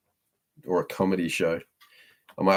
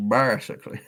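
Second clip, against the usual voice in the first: put-on Yorkshire accent; 4 semitones higher than usual. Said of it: "Yorkshire's easy".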